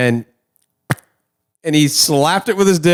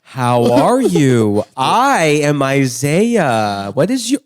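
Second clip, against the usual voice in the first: condescending elder talk; much slower than usual. Retold or imitated. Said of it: "I know exactly what you're talking about".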